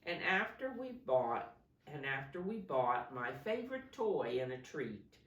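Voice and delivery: put-on clear, projected story reading to children; picture-book narration. A narrator's reading. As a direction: read it out expressively, stressing key words. Reads picture book aloud.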